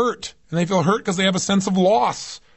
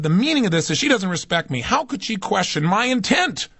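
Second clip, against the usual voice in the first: retold anger; 3 semitones higher than usual. Son reacts to his mother's message, retold anger. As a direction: replay your own wounded indignation, mildly. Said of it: "'Cause the anger came".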